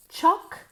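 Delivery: "Chocolate" as high CHOC, long pause, let; two separate syllables. Shown as a demonstration. Teacher repeats chocolate for students, two spaced syllables. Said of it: "Dos sílabas".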